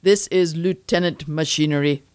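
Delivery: flat robotic monotone. Acted. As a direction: speak like an emotionless android. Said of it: "I recognized your monotone voice".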